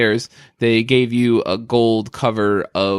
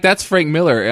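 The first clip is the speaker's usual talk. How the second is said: excited; 5 semitones higher than usual. Retold or imitated. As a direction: blurt the name out eagerly. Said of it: "I'm like".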